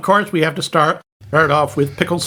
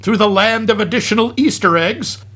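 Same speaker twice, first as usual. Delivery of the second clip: comic film recap; 2 semitones higher than usual. Acted. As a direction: lively recap narration with punched asides. Reads a hammed-up film recap.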